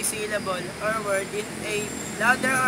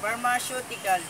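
"pharmaceutical" stressed on its third syllable; "pharmaceutical" said as pharma-CEU-tical. Shown as a demonstration. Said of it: "The stress is put in third syllable".

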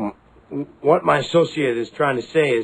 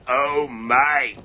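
horrified gasp; 5 semitones lower, much slower than usual. Acted. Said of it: "the medic gets out and says".

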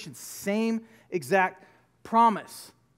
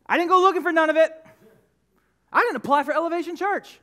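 emphatic refrain; 5 semitones higher, 4 dB louder, faster than usual. Acted.

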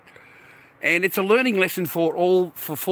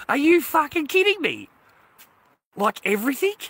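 much higher and louder, disbelieving; incredulous shout; 10 semitones higher, 4 dB louder than usual. Real, not acted. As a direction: hurl the question in outrage. Ranting at ex over seized pay.

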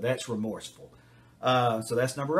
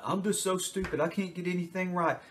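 put-on raised, whiny child voice; whiny self-pity; 6 semitones higher than usual. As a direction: play the pitiful victim kid. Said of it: "turn myself into a victim".

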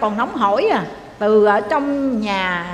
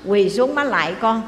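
kneeling plea. Retold or imitated. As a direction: plead gently, bowing to her. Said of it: "Bữa đó cổ quỳ, cổ lại".

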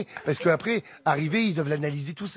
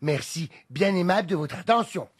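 flight safety announcement. Shown as a demonstration. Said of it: "Vas-y, je te suis ... Fais-le".

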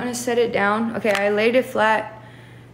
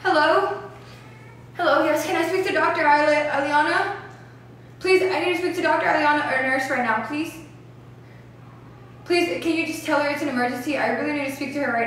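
raised pitch, anxious phone plea; urgent pleading; 3 semitones higher than usual. Real, not acted. Caller pleading for the doctor in an emergency, urgent. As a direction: beg urgently to be put through.

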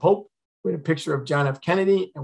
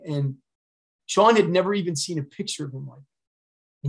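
normal talking voice

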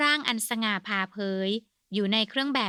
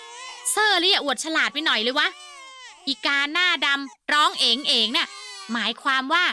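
condescending explanation; 4 semitones higher, 4 dB louder than usual. Acted.

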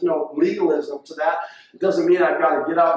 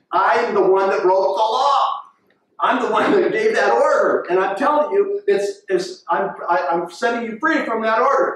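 irate officer. Retold or imitated. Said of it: "the officer was irate".

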